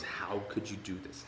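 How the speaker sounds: unvoiced, soft disappointed whisper; hurt whisper of betrayal; hushed reproach. Partner at the kitchen table, hushed disappointed whisper. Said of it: "shaking his head and goes".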